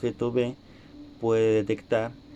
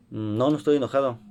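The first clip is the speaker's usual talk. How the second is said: annoyed denial; faster than usual. Shown as a demonstration. Teacher demos an angry student denying he's upset, mildly raised voice. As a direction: deny being angry with a slightly raised voice. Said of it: "la paralingüística la utilicé en el tono de voz alto".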